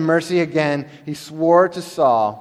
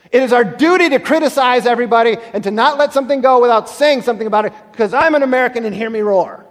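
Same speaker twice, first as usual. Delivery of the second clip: much higher and louder, mock proud roar; preaching shout; 9 semitones higher, 7 dB louder, faster than usual. Preacher mocking American pride, loud and high. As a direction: hammer it home with mock swagger.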